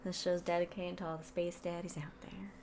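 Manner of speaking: soft breathy whisper; hushed dedication whispered close to the mic. Acted.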